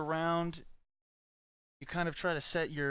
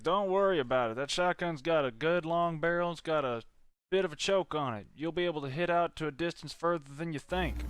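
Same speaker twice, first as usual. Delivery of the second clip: put-on southern accent; 3 dB louder than usual. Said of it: "you were using a little bit of a southern accent".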